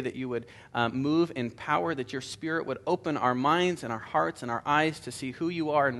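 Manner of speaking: earnest, steady prayer voice. Real, not acted. Pastor prays before the study.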